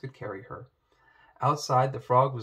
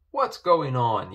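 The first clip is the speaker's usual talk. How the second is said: yell; 2 semitones higher, 8 dB louder, slower than usual. A narrator's reading. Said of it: "yelled the king".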